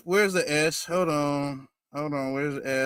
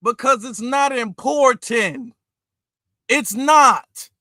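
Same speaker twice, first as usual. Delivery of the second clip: exasperated emphasis; 2 semitones higher, 4 dB louder, slower than usual. Real, not acted. Exasperated answer to the clip.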